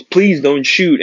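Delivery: slow, high-pitched mock yell; retold pleading yell. Fleeing man to police officer, mild mock yell. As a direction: imitate a yelled plea without shouting. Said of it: "And the man yells".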